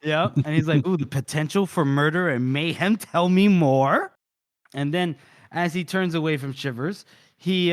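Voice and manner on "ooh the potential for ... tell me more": intrigued. Acted. Acting Casca eager for mayhem.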